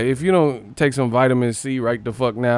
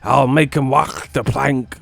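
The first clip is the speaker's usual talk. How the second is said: 1 mock pirate; 3 dB louder than usual. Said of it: "sound like a pirate".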